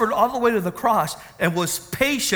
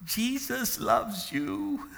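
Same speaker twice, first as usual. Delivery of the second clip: gentle; 11 dB quieter, much slower than usual. Retold or imitated. Coworker speaking through car window.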